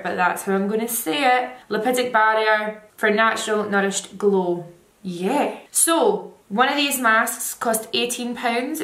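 face covered by wet mask; speaking through a sheet mask. Real, not acted. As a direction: lips through mask opening. Seen 2: white sheet mask covers face, mouth hole open, all frames.

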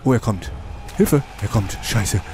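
frantic panicked shouting; being chased. Real, not acted. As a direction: yell it while fleeing in panic. Monster chasing player.

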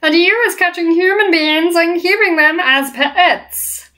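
high, slow accusing giant; giant's voice. Acted. Giant accusing the BFG of hiding humans, high and slow. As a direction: sneer it like a suspicious giant.

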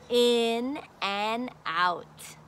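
slow soft repeat. Shown as a demonstration. Teacher repeating the lesson words, slow and soft. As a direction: repeat it gently and slowly. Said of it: "So we're gonna learn about".

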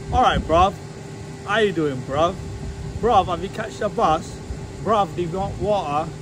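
lightly imitating a London geezer accent. Vlogger shows viewers how Londoners talk, mock London accent. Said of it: "They speak a bit like this".

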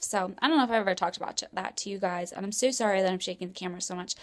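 rapid, rushed chatter; talking fast. Real, not acted. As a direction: rattle it off in a hurry. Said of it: "I'm talking so fast".

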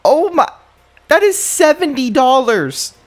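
high, building disbelief; real exasperation at money lost; appalled outcry. Real, not acted.

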